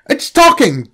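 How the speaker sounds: high, startled cry; astonished exclamation. Acted. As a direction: gasp it out in disbelief. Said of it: "Jack exclaimed".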